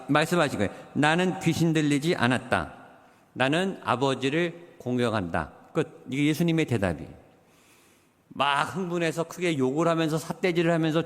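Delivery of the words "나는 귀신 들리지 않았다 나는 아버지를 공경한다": calm and unexcited. Retold or imitated. Pastor voicing Jesus answering the accusing Jews, calm and composed. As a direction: answer without a trace of agitation. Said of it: "전혀 흥분되지 않은, 그리고 침착하고 차분하게".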